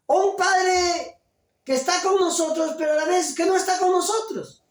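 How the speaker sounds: rising to a shout on the last line; preaching shout. Real, not acted. Preacher's emphatic climax on absent fathers.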